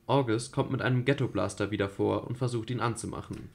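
even narrator reading; radio play narration. A narrator's reading. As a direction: read the action plainly. Reads stage directions. (ruhige Erzählerstimme)

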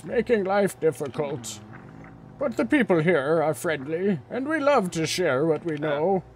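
lightly voiced kindly old man. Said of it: "an old man voice?".

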